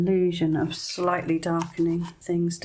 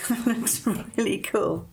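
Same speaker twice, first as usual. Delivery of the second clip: laughing; 4 semitones higher, slower than usual. Real, not acted. Delighted with painting result.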